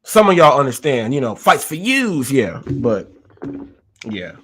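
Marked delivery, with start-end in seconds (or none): 1.3-2.3 put-on Chicago Italian accent. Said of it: "like an old used car salesman".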